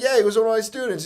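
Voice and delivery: fast, casual mock phone reply; imagined old coach. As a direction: lightly imitate the coach chatting on a call. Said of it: "And he's like".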